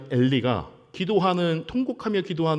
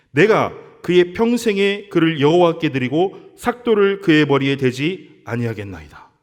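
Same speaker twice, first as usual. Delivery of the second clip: scripture reading; 4 dB louder than usual. Acted. Preacher reading Hannah's vow to the congregation, solemn and loud. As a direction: declaim the verse with growing force.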